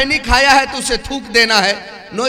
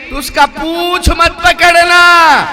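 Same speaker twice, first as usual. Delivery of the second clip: a louder, slower, hammed-up warning; mock warning shout; 4 semitones higher, 5 dB louder, slower than usual. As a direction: bark the warning slowly for effect. Husband warns wife, reverse psychology. (مصنوعی زور دار تنبیہ)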